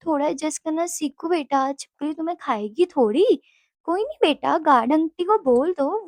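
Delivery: imitating a patient, coaxing father; lilting, lightly voiced parental comfort; loving reassurance. Papa calming daughter afraid of lizards, imitated loving reassurance. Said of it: "बहुत ही प्यार से पापा ने बोला".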